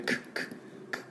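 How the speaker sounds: soft, voiceless little ク; final C sound. Shown as a demonstration. Teacher shows the C ending atomic, light final consonant. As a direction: release ク as a bare consonant, no vowel. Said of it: "アトミックの最後はあの、 Cなんで".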